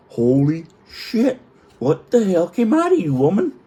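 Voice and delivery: high, drawn-out mock outrage; appalled disbelief. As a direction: build from slow shock to a high, loud demand. Retold horror at the smell.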